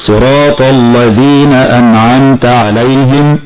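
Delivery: "الذين" with a thick, dark ل after ط; wrong heavy lam. Shown as a demonstration. Teacher shows a common mistake, heavy ل in "الذين". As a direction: slowly darken the ل in "الذين". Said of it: "فالبعض ينطق خطأ هكذا".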